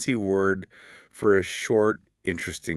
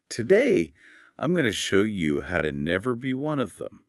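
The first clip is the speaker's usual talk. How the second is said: grab them with a dramatic question; exciting opening. Shown as a demonstration. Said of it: "let me try an exciting opening".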